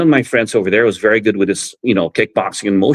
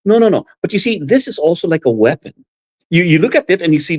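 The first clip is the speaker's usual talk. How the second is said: friend explaining; 5 semitones higher than usual. Retold or imitated. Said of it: "And he goes".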